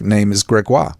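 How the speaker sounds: "Gregoire" said the French way, "greg-WAH"; French "Gregoire" with a dropped final r; French name. Shown as a demonstration. Host explains his French class name, saying "Gregoire" the French way. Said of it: "because in French it's".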